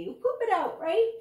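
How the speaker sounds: high, loud, gleeful outburst; enthusiastic yell. A narrator's reading. Dentist rescuing embarrassed Danny with the answer, yelling enthusiastically. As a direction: yell it out, lifting sharply on the last word. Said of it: "yelled out enthusiastically".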